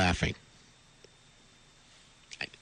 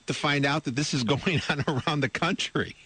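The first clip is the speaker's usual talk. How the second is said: laughing; 4 semitones higher than usual. Real, not acted. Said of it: "I'm laughing again".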